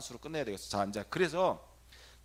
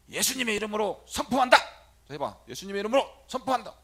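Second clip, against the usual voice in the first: loud, higher declaration; bold proclamation; 7 semitones higher, 11 dB louder than usual. Shown as a demonstration. Priest proclaiming boldly for the youth to repeat. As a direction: proclaim it with authority. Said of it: "시원히 따라서 해봐".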